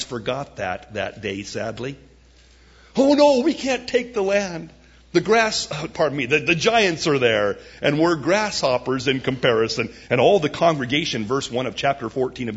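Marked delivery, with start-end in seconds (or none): 3.0-9.9 panicky spies. Acted. Spies voiced in fear.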